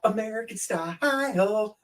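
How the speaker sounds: a playful put-on echo; mock American style. Shown as a demonstration.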